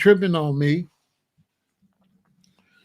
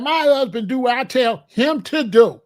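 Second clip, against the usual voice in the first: higher, bossy wife voice laying down the law; a hint of a domineering wife scolding; lightly voiced wife telling her husband off; mock bossy wife; 5 semitones higher, 4 dB louder than usual. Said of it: "And she said".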